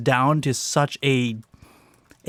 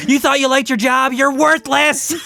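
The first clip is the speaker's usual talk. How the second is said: vile parrot insult; 10 semitones higher, 5 dB louder than usual. Pretend. Cruel parrot taunting a visitor, high loud sneer. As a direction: drag out the insult like a nasty parrot.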